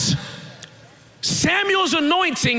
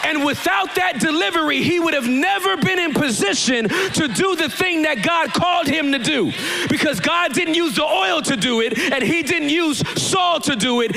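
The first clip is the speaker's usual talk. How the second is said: driving sermon delivery, pitched up; forceful preaching; 3 semitones higher than usual. Real, not acted. Preacher explaining how God used the delivery, forceful and insistent. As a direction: press the point home without letting up.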